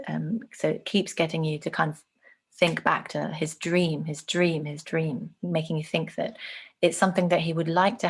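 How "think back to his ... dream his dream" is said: dream stressed and falling, slow; repeated emphasis. Shown as a demonstration. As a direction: lean on each dream, fading away. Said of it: "repeats dream to show emphasis".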